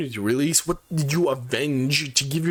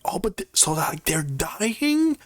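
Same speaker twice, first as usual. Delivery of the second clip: slow, drawn-out, higher mock of Abby; 6 semitones higher than usual. Recapping the movie, he mocks Abby's slow confused question. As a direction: stretch it out like a puzzled Abby. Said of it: "and Abby's like".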